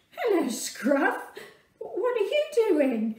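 delighted surprise at the donkey; surprised greeting. Real, not acted. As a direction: act amused and surprised to see him. Greeting child dressed as donkey.

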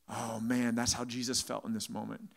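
low, softened preacher's lament; mock heartfelt sermon moment; emotional appeal. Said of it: "I appeal to the emotion of the people".

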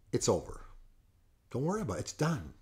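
re-enacted hushed dismissal. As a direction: drop right down, as if it's settled. Retelling coach giving a final dismissal.

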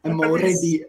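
mock Russian-accented English; imitated Russian accent. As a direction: parrot the Russian's English line teasingly. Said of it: "with the fucking Russian accent".

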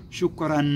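شكرا as "shukran", slowly, final N held; tanween pronunciation. Shown as a demonstration. Teacher demonstrating the sound to pupils, tanween pronunciation. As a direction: draw out the N that ends شكرا. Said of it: "نقول شكرا".

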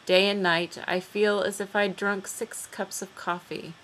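measured poem recital with pauses between phrases; poetry reading. Acted. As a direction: read the poem out, letting each line fall. Reads a poem aloud.

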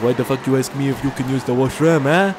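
indignant mock French accent; French person's retort. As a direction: play an affronted French stranger, accent on.

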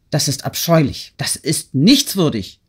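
understated angry exclamation; indignant cry. A narrator's reading. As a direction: denounce it, stretching the final words. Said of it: "schrie sie".

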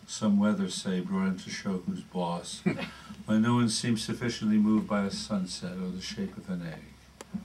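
measured poetry reading, lines set apart by pauses; poem reading. Acted. Poet reading advice on talking to God to an audience, measured recital. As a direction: read the poem aloud, letting line ends settle.

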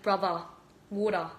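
"brother" and "water" in New York style; New York accent. Shown as a demonstration. Trying out accents on a live stream, mock New York accent. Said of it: "A New York accent".

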